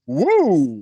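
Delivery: high, loud startled whoa; shocked whoa. Retold or imitated. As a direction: yelp a shocked whoa at the kid. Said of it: "You're like".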